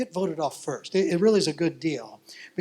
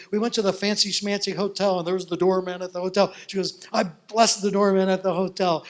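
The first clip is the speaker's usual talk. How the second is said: eager retelling; 3 semitones higher, 4 dB louder than usual. Retold or imitated. The speaker recounting her TV day to her pastor, excited. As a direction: tell it all in an excited rush.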